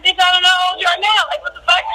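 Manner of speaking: retold scornful retort. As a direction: toss it off like the question is absurd. Quoting her retort to producers.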